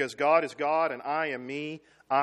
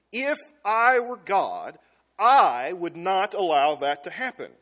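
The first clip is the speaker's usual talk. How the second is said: indignant; 6 dB louder, slower than usual. Retold or imitated. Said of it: "the implicit assumption in that question is".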